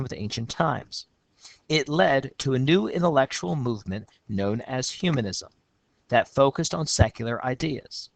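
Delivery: steady reading of a student's essay; essay read aloud. Shown as a demonstration. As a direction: read the student's lines out clearly.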